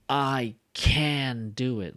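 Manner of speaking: slow, drawn-out rally slogan; Obama-style strong can. Shown as a demonstration. Teacher mocking a speech-style stressed can. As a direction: say it like a campaign chant. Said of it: "like Obama stuff".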